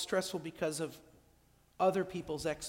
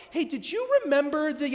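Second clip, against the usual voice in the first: distracted loved one; 8 semitones higher, 8 dB louder than usual. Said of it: "they're like".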